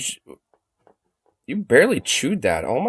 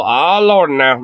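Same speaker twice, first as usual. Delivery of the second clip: Southern "oh lordy". Shown as a demonstration. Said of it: "type of inflection".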